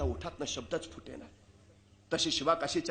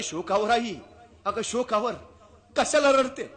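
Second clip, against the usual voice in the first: consoling king; 6 semitones higher, 6 dB louder than usual. Acted. King consoles the weeping mother.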